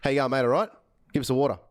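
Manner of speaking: relaxed Australian mate talk; casual Aussie request for water; Aussie accent. Shown as a demonstration. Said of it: "a normal conversation".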